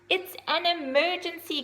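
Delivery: high, loud urgent cry; shout. Acted. Little owl shouting to the horse, high and loud. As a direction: shout it like the sky is falling. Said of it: "cried Ozzy".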